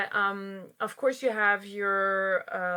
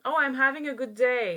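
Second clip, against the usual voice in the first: example quote; 3 semitones higher, much faster than usual. Shown as a demonstration. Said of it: "only when you experience".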